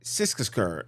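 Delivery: fumbled attempt at "Siskisar"; stumbled pronunciation. Real, not acted. Reader copying a recorded place name, stumbled pronunciation. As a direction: trip through "Siskisar", unsure of the name. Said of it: "I can't even say".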